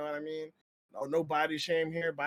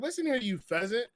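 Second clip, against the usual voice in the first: louder, higher, laughing through a mock tirade; hammed-up streamer scolding a rude chatter; mock shout; 4 semitones higher, 4 dB louder than usual. Streamer telling off a chatter in a mock loud rant. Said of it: "I was like".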